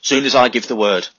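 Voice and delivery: loud, commanding order; sergeant's orders. A narrator's reading. Sergeant addressing everyone in the dugout, loud command.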